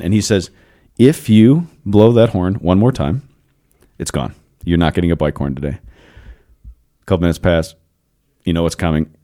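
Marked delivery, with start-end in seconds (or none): 1.0-5.8 mildly stern dad, dropping on the verdict; stern warning. Retold or imitated. Retold dad's final warning.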